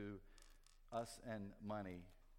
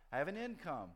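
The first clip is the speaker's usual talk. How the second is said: higher and louder, slowing down on the last lines; indignant rant; 9 semitones higher, 7 dB louder, slower than usual. Retold or imitated. Dad arguing with himself over the candy, rising indignant and slow. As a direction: build up to a righteous, self-important slow claim.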